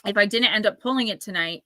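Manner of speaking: ordinary delivery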